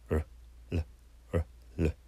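"ル" alternating syllabic R and syllabic L; short separate "ル", curled R then tongue-to-palate L; 母音のRとL. Shown as a demonstration. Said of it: "Rの発音も". (「ル」をRとLで交互に短く)

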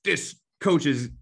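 hammed-up envious griping; mocking jealous coach. Jealous coach muttering about the final, mock envious. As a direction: whine like a coach who wants the job. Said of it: "hear them talking about on the sideline".

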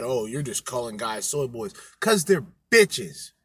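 ordinary talk

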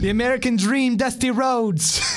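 slow stretched wrestler promo; long drawn-out Dusty. Retold or imitated. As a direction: drag out every word, slowly. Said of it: "the long, drawn-out thing".

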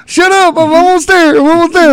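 high, loud, impatient brush-off; annoyed high voice. Retold or imitated. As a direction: wave him off, almost done. Sam busy with stripper.

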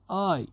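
high mock yelp of pain; storyteller's high little ouch; pained cry. A narrator's reading. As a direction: cry "ow" high, without much volume. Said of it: "پیتر خوبه داد زد".

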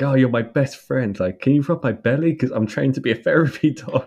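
high, quick excited dog voice; mock eager dog. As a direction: gush it fast and high like a needy pup.

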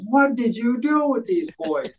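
a retold teacher's stunned question; astonished teacher. Teacher phoning at night, asking what happened, lightly voiced amazement.

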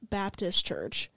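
slow, weighted delivery; slightly aggressive, drawn-out naming. Real, not acted. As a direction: put deliberate weight on each word. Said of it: "He said that really aggressively".

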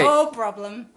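loud, odd attempt at Yorkshire; weird Yorkshire accent. Guest answering the host's thanks, weird Yorkshire accent. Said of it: "some weird Yorkshire accent".

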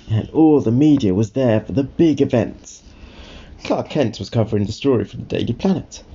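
put-on clear, lively read-aloud to a child; storybook narration.

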